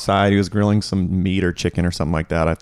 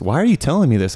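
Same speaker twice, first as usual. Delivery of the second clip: mildly exasperated dad, pitched higher; frustrated dad; 5 semitones higher, faster than usual. Retold or imitated. Dad finally answers his son, mock frustrated. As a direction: imitate a dad who is getting fed up. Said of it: "he's kinda frustrated, and he goes".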